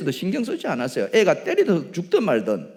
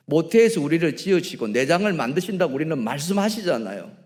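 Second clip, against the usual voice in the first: ordinary talk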